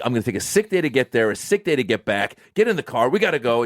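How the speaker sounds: hurried, harried American planning; stressed out. Acted. Comedian acting out stressed Americans rushing a trip, harried. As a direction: rattle it off like a stressed holidaymaker. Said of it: "we're just stressed out".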